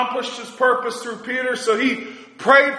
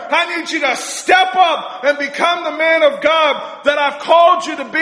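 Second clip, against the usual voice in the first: preaching at full force; 2 semitones higher than usual. Acted. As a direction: call him to step up, full voice. Preacher voicing Jesus, commanding.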